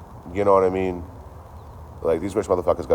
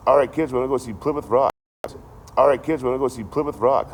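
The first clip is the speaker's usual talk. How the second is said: mock cheerful parent; 7 semitones higher, 4 dB louder than usual. Mock parent announcing trip.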